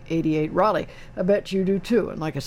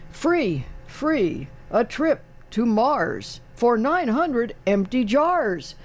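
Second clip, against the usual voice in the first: higher, drawn-out promotional pitch; billboard slogan read-out; 4 semitones higher, much slower than usual. Retold or imitated. Radio host quoting Burma Shave's signs, slogan read-out. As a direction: read it out slowly like a roadside sign.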